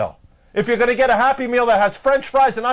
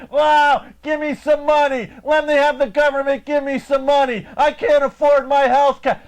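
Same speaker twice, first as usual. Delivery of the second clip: mock whining; 3 semitones higher than usual. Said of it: "I'm not going around crying".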